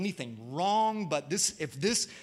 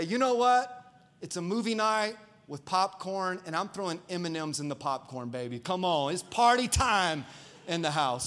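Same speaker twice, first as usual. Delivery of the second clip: playful hype. Retold or imitated. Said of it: "you can say".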